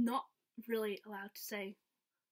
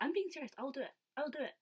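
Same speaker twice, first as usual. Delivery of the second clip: higher-pitched retold pleading; earnest insisting; 4 semitones higher, much faster than usual. Fan persuading the star to sign for a tattoo, insistent. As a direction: insist you really mean it.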